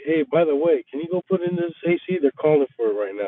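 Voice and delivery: high squeaky mock of the boss, rushed; fast, high, sing-song boss imitation. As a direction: parody the boss's careless ask. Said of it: "you're telling me".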